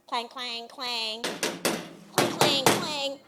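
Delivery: ringing metallic clang imitation; imitated banging. Storyteller imitating someone banging on the phone, percussive clangs. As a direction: mimic repeated banging on a payphone. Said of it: "I hear a banging on the phone".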